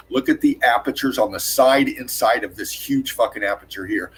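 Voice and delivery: breathless, winded while talking; out of breath. Real, not acted. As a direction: talk short of breath, gasping lightly. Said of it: "I'm getting out of breath".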